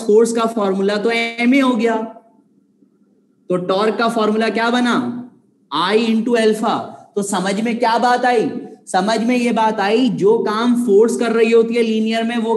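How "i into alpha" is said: very slow, each word drawn out; slow dictation. Shown as a demonstration. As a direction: dictate it so students can write. Teacher dictating formula answer.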